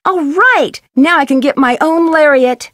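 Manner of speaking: high, bright whoop of delight; thrilled little victory cry; excited cheer. Acted. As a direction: celebrate getting the rope. Finally gets a lariat.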